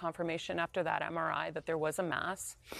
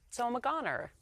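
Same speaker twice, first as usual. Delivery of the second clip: dark joke; 6 semitones higher than usual. Retold or imitated. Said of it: "I just kinda go to jokes fast".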